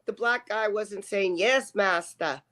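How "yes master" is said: put-on southern accent. Mocking a man expected to obey a cop, light southern accent. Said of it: "that's doing a southern accent".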